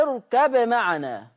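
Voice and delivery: "اركب معنا" بإظهار الباء قبل الميم; تُنطق "اركب معنا" بباء واضحة; اركب معنا بالإظهار. Shown as a demonstration. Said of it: "أظهر ورش الباء". (تلاوة بطيئة بإظهار الباء)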